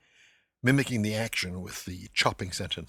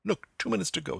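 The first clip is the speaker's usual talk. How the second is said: a raised, much higher, broken English pointing at the clock; pidgin English; 11 semitones higher than usual. Retold or imitated. Stephen coaxing the clerk in pidgin: high, insistent. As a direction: spell it out in simple words to a stubborn clerk. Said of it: "leads the man through pidgin English".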